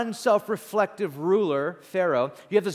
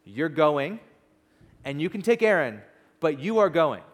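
angry command; 3 dB louder than usual. Acted. God losing patience with reluctant Moses, restrained anger. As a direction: lay down the law, mildly angry. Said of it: "God gets angry at Moses".

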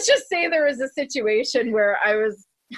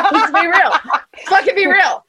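loud, higher, punchy admission; raised-voice blunt confession; emphatic; 8 semitones higher, 7 dB louder than usual. Real, not acted. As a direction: call it out over the laughter. Owning up amid laughter.

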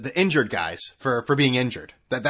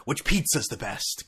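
whisper. Real, not acted. Whispered aside.

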